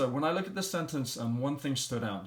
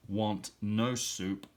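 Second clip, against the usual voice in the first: slow trial phrase; much slower than usual. Shown as a demonstration. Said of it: "sounds a lot better".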